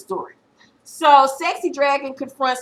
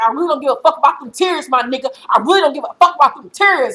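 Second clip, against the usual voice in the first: put-on angry teen; 3 semitones higher, 4 dB louder than usual. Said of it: "She's getting angrier and angrier".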